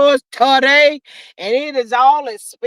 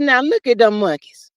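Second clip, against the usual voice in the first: scolding rant; 4 semitones higher than usual. Retold or imitated. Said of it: "I said".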